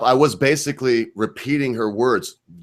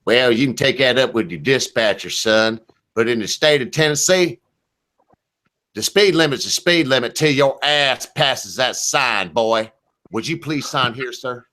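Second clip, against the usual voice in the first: retold police officer; 2 semitones higher than usual. Officer answering a trucker's excuse, imitated officer voice. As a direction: imitate an officer lecturing a driver. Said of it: "This was his response".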